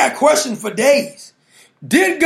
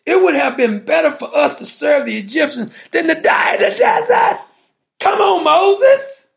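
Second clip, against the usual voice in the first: complaining cry; 3 semitones higher than usual. Acted. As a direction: whine it at Moses like a frightened crowd, slowing on "Come on, Moses". Israelites complaining to Moses.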